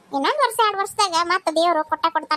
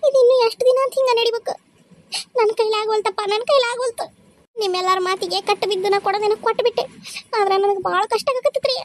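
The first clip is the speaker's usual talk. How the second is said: distressed pleading; 4 semitones higher than usual. Acted. Wife despairs over giving child.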